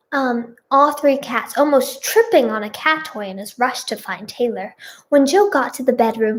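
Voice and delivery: put-on children's TV storyteller narration; story narration. A narrator's reading. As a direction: read it out like a storyteller. Reads fan fiction aloud.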